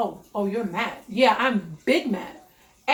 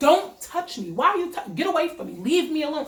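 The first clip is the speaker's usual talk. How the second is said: loud, furious, angry yelling; 5 semitones higher than usual. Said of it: "And I'm loud".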